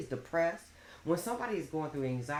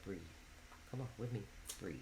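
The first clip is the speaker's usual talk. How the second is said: gentle breathing coach; 9 semitones lower, 18 dB quieter, faster than usual. Retold or imitated. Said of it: "she said".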